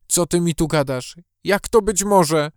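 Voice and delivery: exclaiming in disbelief. Acted. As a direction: cry out in disbelief. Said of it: "zawołała matka".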